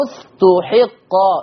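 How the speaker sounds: slow استحقا, syllable by syllable; Warsh reading. Shown as a demonstration. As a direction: say استحقا as "us-tu-hiq-qa". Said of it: "ضم التاء وكسر الحاء".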